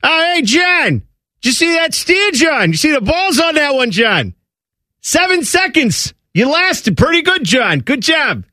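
high-pitched, hammed-up Boston rodeo fan; attempted Boston accent. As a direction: cheer your buddy on in a botched Boston accent. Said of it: "I don't know what accent that even is".

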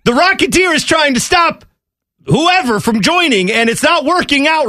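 high, giggly delivery through laughter; laughing while talking. Real, not acted. Host laughing at his own golf joke to co-host. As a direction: push the words out between laughs.

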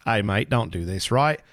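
Welsh attempt that lands Australian; botched Welsh accent. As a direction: try Welsh and slip into Australian. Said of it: "That was an Australian accent".

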